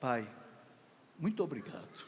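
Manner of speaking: tearful, grateful voice. Retelling a son's reply to his father's apology: imitating a son in tears. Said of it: "Em lágrimas".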